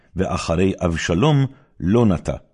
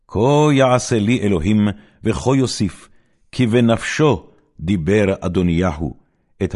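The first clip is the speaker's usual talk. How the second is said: loud, raised vow that settles at the end; furious royal oath; 4 semitones higher, 4 dB louder than usual. Acted. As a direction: swear it like a king passing sentence. Solomon swears a death oath. (שבועה זועמת ורמה של מלך)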